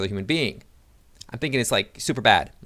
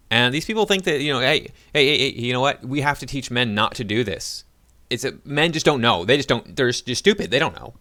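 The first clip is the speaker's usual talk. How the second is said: a touch of mocking, sarcastic tone, a bit higher; sarcastic mockery; 3 semitones higher, 4 dB louder than usual. Vlogger mocking activists' view to viewers, mild sarcastic imitation. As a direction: lightly mimic them with scorn.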